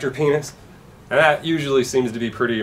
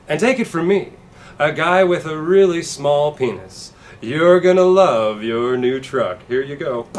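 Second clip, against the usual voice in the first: louder, pushy salesman pitch; truck salesman; 3 semitones higher, 5 dB louder than usual. Retold or imitated. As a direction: sell it like a hyped car dealer.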